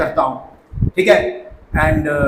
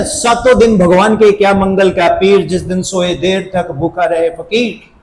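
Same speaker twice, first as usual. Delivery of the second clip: lightly performed recitation; reciting verse. Retold or imitated. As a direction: declaim the verse like a tipsy teacher. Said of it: "अब कहते ना".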